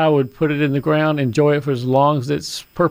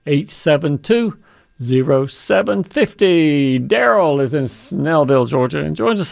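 radio announcer. Acted. Radio show opening.

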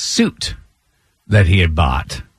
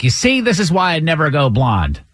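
imitating a scolding stylist, a little higher; lightly scold, pitched up, as an exasperated stylist; retold ticking-off, slightly raised pitch; mild mock scolding; 4 semitones higher than usual. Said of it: "is almost scolding him".

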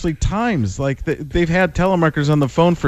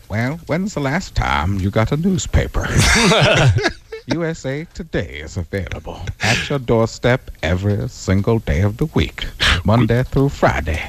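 telemarketer voice; 4 semitones lower than usual. Pretend. Cold-calling strangers in a lower, put-on salesman voice. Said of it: "I use the voices".

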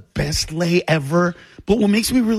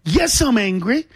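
high, half-laughing indignation; rising complaint with a laugh in it; mock outrage; 7 semitones higher than usual. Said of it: "So I said".

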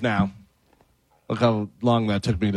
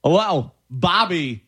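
Jay Moore impression; 3 semitones higher than usual. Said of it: "Jay Moore in a steam room".

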